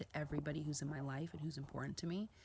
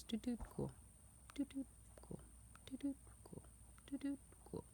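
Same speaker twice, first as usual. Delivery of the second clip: mock bored glance at photos, soft and higher; a soft, higher, careless scroll past the pictures; bored dismissive; 9 semitones higher, 12 dB quieter than usual. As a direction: flip through and shrug it off. Mocking bored picture viewer.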